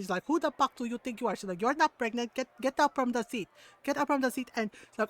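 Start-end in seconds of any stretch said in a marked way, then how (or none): 0.3-1.3 fast imitation of indignant mom; a quick, accented motherly challenge. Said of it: "like, the mom tone and everything". 1.6-4.5 imitating mom's accented orders; scolding mom. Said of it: "like, the mom tone and everything".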